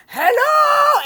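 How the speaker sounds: full-throated yell into the phone; a farmer shouting into his first telephone; screaming hello. Retold or imitated. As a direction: bellow it at the top of your lungs. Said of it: "scream into the phone".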